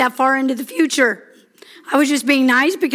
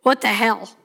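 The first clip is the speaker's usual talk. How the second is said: wife's baffled look; 3 semitones lower than usual. Retold or imitated. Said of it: "she gives me this look back like".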